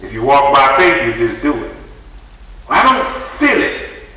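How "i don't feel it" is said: very high, drawn-out mimicry of reluctant people; mock someone refusing, way up in pitch; slow, high-pitched imitation; mocking whiner. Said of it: "You know how people do".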